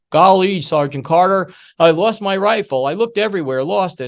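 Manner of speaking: a recruit lightly mimicked confessing to his sergeant; Gomer Pyle voice. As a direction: play the sweet dim recruit owning up. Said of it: "have Gomer Pyle walk into Sergeant Carter and say".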